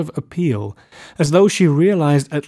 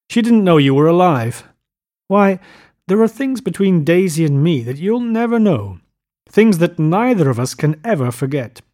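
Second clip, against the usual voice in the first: raised, forceful angry voice; savage; 5 semitones higher, 5 dB louder than usual. A narrator's reading. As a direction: drive it home savagely, high and loud. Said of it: "said Tom savagely".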